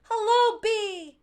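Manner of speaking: high, loud joyful whoop; loud happy greeting. A narrator's reading. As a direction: whoop with relief. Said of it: "he whooped".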